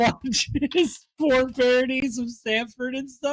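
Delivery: laughing through the question in disbelief; slow, giggling tease; teasing a friend while cracking up. Real, not acted. Teasing John about porn parodies.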